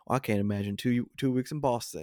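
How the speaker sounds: lightly voiced, matter-of-fact quote; quoted movie character. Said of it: "He goes".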